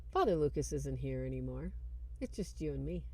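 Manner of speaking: low, quiet menace; possessed priest. Retold or imitated. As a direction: let it sink to a chilling hush. Possessed priest answers Michael.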